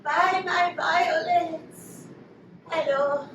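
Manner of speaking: French violet seller calling out; drawn-out French-accented street cry. Acted. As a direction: put on a French flower girl's accent. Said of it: "with an actual French accent".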